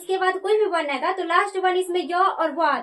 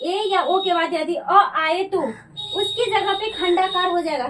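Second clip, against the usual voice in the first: slow dictation. Shown as a demonstration. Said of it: "ये वर्ण याद कीजिएगा".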